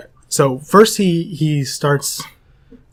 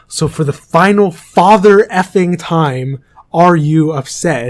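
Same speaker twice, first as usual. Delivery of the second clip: louder, higher, slow mock yell; retold angry yell; 4 semitones higher, 6 dB louder than usual. Band teacher insults crying student, retold as an angry yell. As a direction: imitate a furious teacher yelling, drawing out each word. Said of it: "he yells at him".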